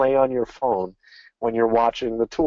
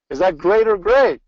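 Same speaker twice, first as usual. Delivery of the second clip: excited; 6 semitones higher, 4 dB louder than usual. Shown as a demonstration. Rallying audience for an enthusiastic answer.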